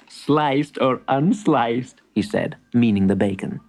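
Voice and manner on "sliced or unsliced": teasing shopkeeper. Acted. Shopkeeper teases.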